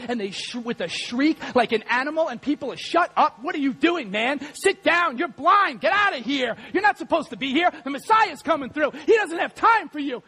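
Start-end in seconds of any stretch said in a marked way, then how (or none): 2.8-10.2 higher, sharp mock scolding; crowd scolding. Pastor voices the crowd shouting at blind Bartimaeus, higher. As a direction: hush the blind beggar down.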